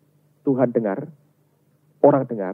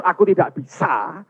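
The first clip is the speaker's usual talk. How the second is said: raised-pitch cry of helplessness; honest admission; 4 semitones higher, 4 dB louder than usual. Acted. Believer honestly confessing inability to God, high cry. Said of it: "Kalau engkau berkata jujur".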